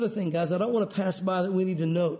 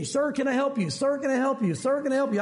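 higher-pitched, insistent counter attendant; the same offer repeated in a higher voice; pestering attendant; 5 semitones higher than usual. Retold or imitated. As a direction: mildly imitate someone nagging for attention. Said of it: "it was very annoying".

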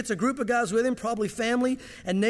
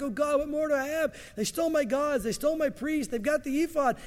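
higher, mournful cry to God; lament to God; 5 semitones higher than usual. Retold or imitated. Micah crying out to God over his loss, mournful. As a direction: cry out as if all is lost. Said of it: "when he goes back".

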